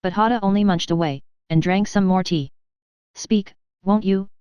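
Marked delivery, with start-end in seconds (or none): 3.1-4.3 slow, insistent demand; impatient cry. Acted. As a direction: draw it out, out of patience. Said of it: "cried the king".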